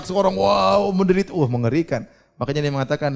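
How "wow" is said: drawn-out mock "wow" cry; mild mock wail, pitched up; imitated scream. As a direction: mimic someone screaming in pain. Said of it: "dengar suara orang teriak-teriak".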